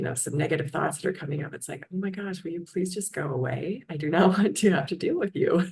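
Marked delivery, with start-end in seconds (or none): 1.9-5.7 mock exasperated plea. Woman telling her negative thoughts to leave, mock exasperated. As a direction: beg them to leave, half-laughing.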